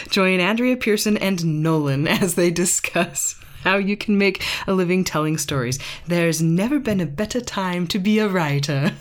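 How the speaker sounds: light mock British announcer voice; British accent. Reading a podcast blurb to her husband in a light British accent. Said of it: "have to be read with a British accent".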